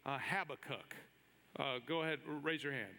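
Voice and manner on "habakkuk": "Habakkuk" with stress on the first syllable, HAB-a-kuk; option A pronunciation. Shown as a demonstration. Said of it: "if you would say A".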